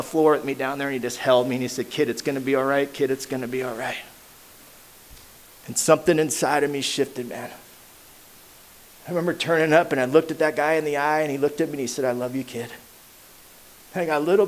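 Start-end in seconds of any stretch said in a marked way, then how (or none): 1.9-4.0 quiet and gentle, like holding someone; tender reassurance. Retold or imitated. Sponsor comforting him on floor. 12.0-12.7 softer, quiet and sincere; tender. Retold or imitated. Sponsor tells him love.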